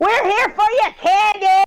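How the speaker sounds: shrill, high-pitched shout. Narrating a story, the speaker voices a character kicking a door: yelling. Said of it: "she kicks the door and she yells".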